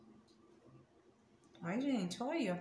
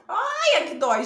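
very high loud ouch, then louder complaint; real pain cry; 7 semitones higher, 11 dB louder than usual. Real, not acted. Woman peeling a mask off her hairline, loud pained ouch. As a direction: yelp as the hairs get yanked.

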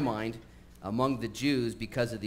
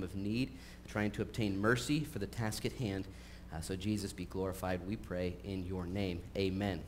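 prayer. Acted. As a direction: pray it humbly. Leads a prayer.

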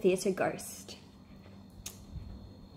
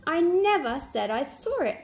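higher and a little louder, protesting; raised voice; 8 semitones higher, 3 dB louder than usual. A narrator's reading. Jack protesting to his friends, raising his voice. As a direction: push back, voice lifting in protest. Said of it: "raising his voice".

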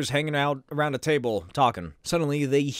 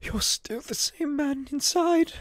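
higher, pleading butler voice; Alfred voice; 9 semitones higher than usual. Acted. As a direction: beg your master gently, voice raised high.

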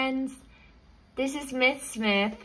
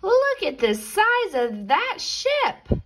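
put-on high excited little boy; child voice; 11 semitones higher, 4 dB louder than usual. Billy gasping at the huge ship, high and excited. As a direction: squeal it like an eager kid.

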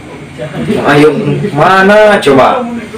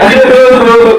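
laughing; 6 semitones higher than usual. Acted. Friend mocks the groaning.

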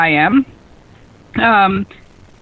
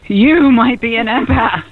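slow punchline. Shown as a demonstration. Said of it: "here's one for you".

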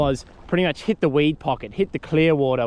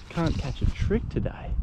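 muttered under breath; 3 semitones higher, 6 dB quieter than usual. Real, not acted. Fish missed, muttering to himself.

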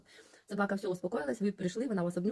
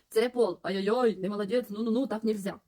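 scolding the puppy; 4 dB louder than usual. Shown as a demonstration. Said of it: "а просто показуєте".

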